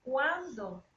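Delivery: "Cuándo" with the first syllable stressed, then falling; emphatic, questioning "Cuándo"; question word. Shown as a demonstration. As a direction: ask "Cuándo" as a standalone question. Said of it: "Porque es una pregunta".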